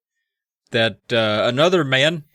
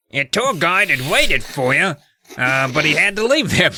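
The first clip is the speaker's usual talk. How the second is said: put-on wobbly comic London accent; night guard's accent; 5 semitones higher than usual. Old night guard telling kids about guide, London accent. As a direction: put on a bad London twang, higher pitched. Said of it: "guard with that accent".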